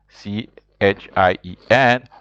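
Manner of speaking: letters C H I E N spaced slowly; slow spelling. Shown as a demonstration. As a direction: spell it out slowly so they can write. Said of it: "spelling slowly".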